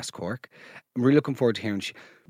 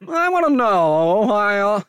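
Columbo voice; 7 semitones higher, 5 dB louder, slower than usual. Retold or imitated. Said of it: "why are you speaking like a detective?".

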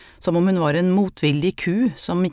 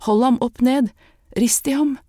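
panicked shouting; 7 semitones higher, 4 dB louder than usual. Acted. Panicked mother yells orders.

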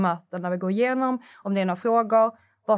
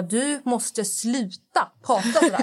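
slow, higher-pitched imitated telling-off; exasperated mum; 4 semitones higher, slower than usual. Mum reacts to Gothenburg dialect, imitated slow telling-off. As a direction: draw it out as a fed-up mother. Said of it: "Och mamma bara".

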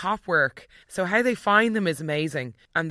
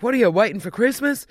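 grumpy John; 6 semitones higher, 4 dB louder, faster than usual. Retold or imitated. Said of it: "he's like".

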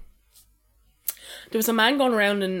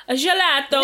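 put-on comic Italian baby accent; lightly hammed Italian; mock Italian; 3 semitones higher, 3 dB louder than usual. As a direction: say it in playful fake Italian. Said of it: "In English with an Italian accent".

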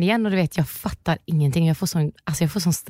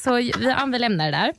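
ordinary talk, nothing marked

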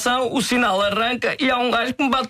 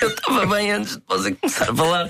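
half-sobbing, half-shouting complaint; tearful outburst. Acted. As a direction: blurt it out through comic tears. Client sobbing on advice show. (desabafo choroso a meio grito)

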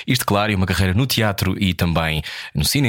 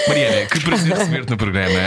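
high, giggling welcome; laughing; 5 semitones higher than usual. Real, not acted. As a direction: laugh while welcoming her. Host laughs greeting guest.

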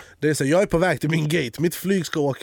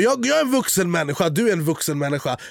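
retold anger; 4 semitones higher than usual. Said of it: "jag blev så arg".

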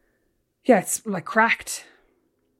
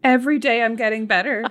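sing-song mocking repeat of her line; mocking imitation; 4 dB louder than usual. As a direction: mimic her like a teasing sibling. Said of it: "are you twelve?".

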